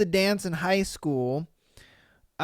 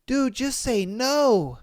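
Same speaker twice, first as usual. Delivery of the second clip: exasperated advice; 3 semitones higher, slower than usual. Retold or imitated. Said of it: "And I'm like".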